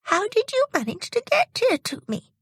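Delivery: put-on high, slow puzzled old lady's question. Old lady asks Jimmy how he reached her, puzzled and high. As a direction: wonder aloud, puzzled. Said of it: "she asked".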